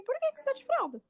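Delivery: playful teasing question. Retold or imitated. Teasing a toddler, high.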